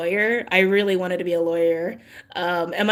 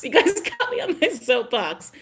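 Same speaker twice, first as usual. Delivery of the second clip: higher, giggling through soapbox; laughing; 5 semitones higher than usual. Real, not acted. Vlogger laughing at herself to viewers. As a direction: laugh while admitting the rant.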